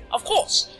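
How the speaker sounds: high, emphatic 'of course'; excited exclamation. Real, not acted. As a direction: burst out with sudden realization. Repeats it as exclamation.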